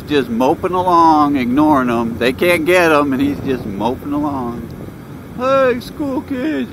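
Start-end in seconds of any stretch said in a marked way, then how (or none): 5.4-6.7 calling out. Real, not acted. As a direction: hail the schoolkids from the bike, slow and high. Calling out to children while riding.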